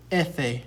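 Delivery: efe said EH-fay; Spanish letter name. Shown as a demonstration. Teacher naming letter F in Spanish, clear demonstration. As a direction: say efe in two syllables, EH-fay. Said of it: "in Spanish it's pronounced".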